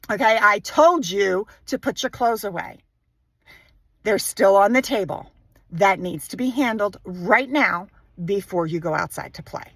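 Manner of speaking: firm, measured parental reminder. Shown as a demonstration. Parent telling child to put clothes away, firm tone. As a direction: lay it down firmly without yelling. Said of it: "that firm tone of voice that you use".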